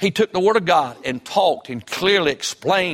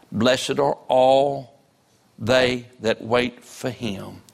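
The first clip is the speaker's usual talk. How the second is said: deliberate pulpit reading; scripture reading. Real, not acted. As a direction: read the verse out solemnly, phrase by phrase. Scripture read aloud.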